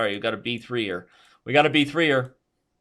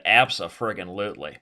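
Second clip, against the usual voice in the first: mock Aussie accent with an inserted emphasis; playful Aussie accent; 2 semitones lower, 4 dB louder than usual. Shown as a demonstration. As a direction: show off the Aussie version. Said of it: "you can evolve into".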